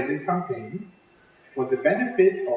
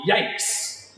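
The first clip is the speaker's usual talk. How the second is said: startled cry. Acted. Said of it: "he cried".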